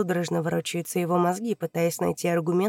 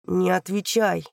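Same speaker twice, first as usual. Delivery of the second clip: through the teeth; 3 dB louder, slower than usual. Acted. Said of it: "процедил прокурор".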